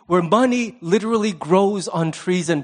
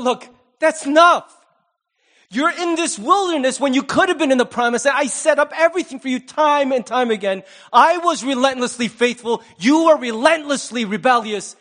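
firm rebuke; 5 semitones higher than usual. Retold or imitated. God's rebuke voiced firmly.

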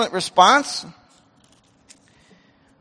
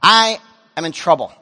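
pleading prayer; 4 semitones lower, slower than usual. Retold or imitated. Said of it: "I finally said".

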